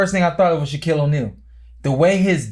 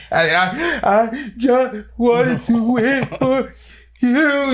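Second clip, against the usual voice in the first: stammering, very slow, much higher, breaking down; the same plea falling apart into sobs; broken sobbing; 10 semitones higher, much slower than usual. Retold or imitated. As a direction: sob it out word by word. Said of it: "frantically crying".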